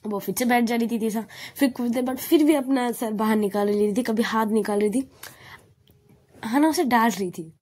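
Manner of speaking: ordinary delivery, nothing marked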